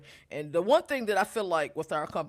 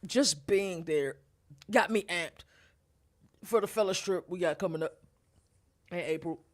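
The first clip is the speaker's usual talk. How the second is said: hiccups. Real, not acted. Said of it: "Got the hiccups".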